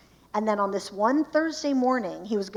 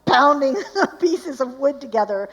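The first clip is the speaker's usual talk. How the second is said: husband pounding wood; 3 semitones higher, 8 dB louder than usual. Retold or imitated. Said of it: "And so he's like".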